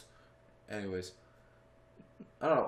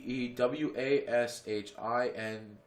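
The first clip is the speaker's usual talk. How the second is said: spelled out slowly; 3 semitones lower, slower than usual. Shown as a demonstration. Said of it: "How do you spell George Washington?".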